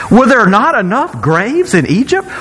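dry, mocking question; a touch of sarcasm; sarcastic. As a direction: sneer it a little. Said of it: "most sarcastic line in the Bible".

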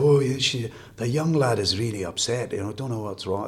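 a faint hint of a Scottish accent, not really put on; lightly imitating Liam Neeson's Scottish accent; mild Scottish accent. Retelling the Love Actually scene, a barely-there Scottish accent. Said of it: "That's a Scottish accent".

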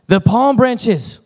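high, loud, slow indignant shout. A narrator's reading. Donkey shouting at the marketplace crowd, indignant. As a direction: cry out for the missing palm branches. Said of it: "he shouted".

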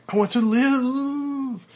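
high, loud, slow desperate cry; desperate shout. Acted. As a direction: scream as he bursts free. Bursts out of elevator.

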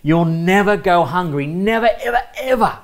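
a gentle hint of Jesus making an emphatic promise; preacher voicing Jesus' promise, rising on the repeated ever; Jesus speaking. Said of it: "Jesus is saying".

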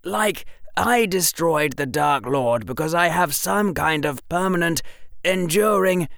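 put-on high boy's voice, mildly exasperated; annoyed and frustrated. A narrator's reading. Boy scoffing at his supposed trait, frustrated. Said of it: "annoyance and frustration warring in him".

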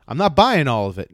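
loud retold objection; lightly acted man standing his ground; emphatic imitation of his protest; mock firm refusal. Retold man refuses woman again.

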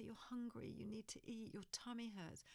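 soft, partly whispered reassurance; gentle naming of need. Shown as a demonstration. Parent names baby's hunger in soft whisper. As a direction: tell baby what it feels, softly. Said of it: "you can say".

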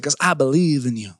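low, gruffly sincere coach quote; imitated coach. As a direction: drop low to voice a coach's confession. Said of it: "He says".

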